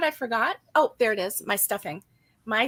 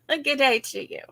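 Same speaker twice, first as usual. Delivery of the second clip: a light, half-hearted Australian "Good day to you"; mock Australian accent; 2 semitones higher than usual. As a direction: toss off a playful Australian greeting. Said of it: "I'll be Australian".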